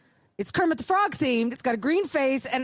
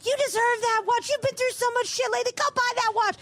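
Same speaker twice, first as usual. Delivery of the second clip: higher, encouraging cheerleader voice; listeners urging; 9 semitones higher than usual. Retold or imitated. Listeners on her Facebook page urging her, higher and encouraging. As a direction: egg her on like a fan. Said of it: "all these listeners are like".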